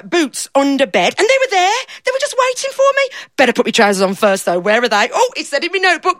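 a lightly voiced simple fella, eager and proud; daft fella. Storyteller playing the fella who lost himself, lightly voiced. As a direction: speak as the muddled daft man, pleased with himself.

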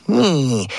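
crabby aunt grunt. Retold or imitated. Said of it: "she went".

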